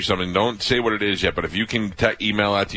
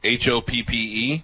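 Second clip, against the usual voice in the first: spelled out slowly; 4 semitones higher, slower than usual. Shown as a demonstration. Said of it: "spelling it out".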